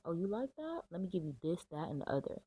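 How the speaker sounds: the universe as a delighted giver, pitch up; playful universe voice. Retold or imitated. Reader voices the universe rewarding a grateful viewer playfully.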